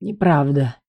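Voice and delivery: usual speaking voice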